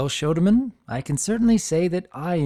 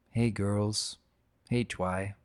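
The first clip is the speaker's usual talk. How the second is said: put-on hushed, fond hello to an old photo; soft greeting; 4 semitones lower, 6 dB quieter, much slower than usual. Old Spike greets his friends' photo, hushed and fond. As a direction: murmur it to old friends in a picture.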